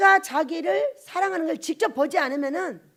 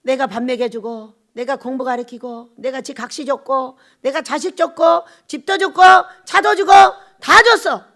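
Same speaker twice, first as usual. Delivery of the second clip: retold complaint swelling item by item; aggrieved listing; 3 semitones lower, 8 dB louder than usual. God lists all he gave them, rising grievance.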